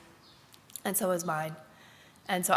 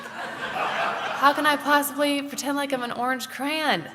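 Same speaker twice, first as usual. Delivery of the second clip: amused disbelief; 6 semitones higher than usual. Retold or imitated. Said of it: "And I'm like".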